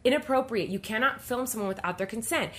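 retold firm order, each point driven home; mildly acted stern telling-off. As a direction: stand your ground with a passenger. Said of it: "she just stood her ground so firmly".

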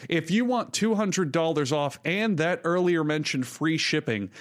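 smooth upbeat ad read; sponsor ad read. Acted. Host reads the Helix mattress ad, smooth and upbeat. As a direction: sell the mattress warmly to listeners.

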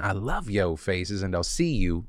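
sick, stuffy-nosed voice; stuffy nose. Real, not acted. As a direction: talk through a stuffy nose. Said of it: "filming while I'm sick this week".

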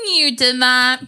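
imitated scolding, barely holding it together; on the edge of losing it. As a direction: act out a girl about to lose it. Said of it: "losing it a little bit".

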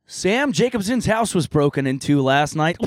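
lightly voiced news reporter; newscaster voice. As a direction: read it like the evening news. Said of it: "newscaster voice".

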